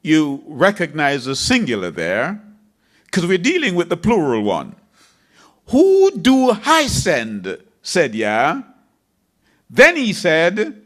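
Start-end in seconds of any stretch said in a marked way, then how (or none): 5.7-7.6 slow solemn question. Acted. Voicing God's question.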